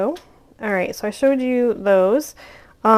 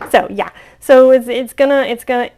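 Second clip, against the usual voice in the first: talking loudly through laughter; laughing; 4 semitones higher, 12 dB louder than usual. Real, not acted. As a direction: keep laughing as you talk. Still laughing after the fumble.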